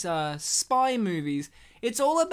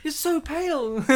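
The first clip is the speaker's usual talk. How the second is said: concerned; 4 semitones higher, faster than usual. Acted. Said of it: "you're trying to help him".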